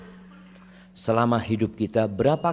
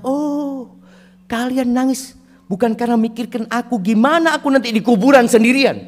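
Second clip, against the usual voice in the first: 1 dying father; 10 semitones higher, 4 dB louder than usual. Retold or imitated. Dying father answers his family.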